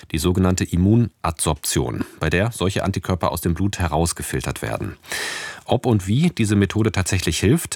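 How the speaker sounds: scripted science-magazine link, phrases falling at the ends; radio news read. Real, not acted. Presenter introducing a report on Long-Covid treatment, scripted radio read.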